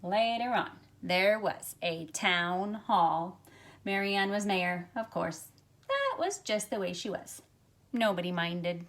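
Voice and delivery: gentle storybook read-aloud for a class; reading to children. Acted. Teacher reading a picture book to her class, storytelling voice. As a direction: tell the story to young listeners, unhurried.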